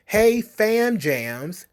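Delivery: high hey, very slow fam jams; hammed-up cheerful class greeting; mock chirpy greeting. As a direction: stretch it out like a cringey teacher. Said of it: "some of the things that were suggested".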